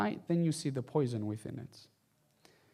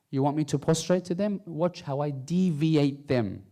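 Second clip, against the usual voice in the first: shaitan's boast; 4 dB louder than usual. Acted. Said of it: "shaitan promises Allah, what does he say".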